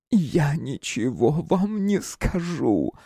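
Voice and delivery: slow, high, a hint of hoarseness; hoarse woman's reply. A narrator's reading. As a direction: refuse him through a rasp. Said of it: "хрипло ответила женщина". (хрипло, медленно, женским голосом)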